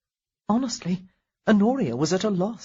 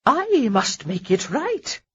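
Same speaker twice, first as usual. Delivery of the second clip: slow, louder grand proclamation; grandly; 5 semitones higher, 3 dB louder, slower than usual. A narrator's reading. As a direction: play to the crowd. Lady Danbury playing to crowd.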